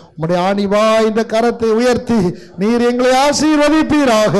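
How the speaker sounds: earnest prayer that climbs in pitch; fervent prayer. Real, not acted. Pastor asking the Father to bless the church, fervent prayer. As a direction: pray aloud, building towards the blessing.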